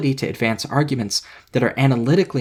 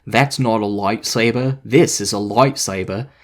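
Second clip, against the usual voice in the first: slow, over-enunciated smug YouTuber mock; lightly mock a smug YouTuber, spelling out each word; obnoxious YouTuber enunciation; 2 semitones lower, slower than usual. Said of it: "in full obnoxious YouTuber enunciation".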